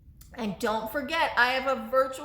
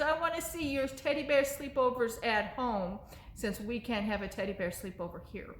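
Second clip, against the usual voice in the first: ordinary delivery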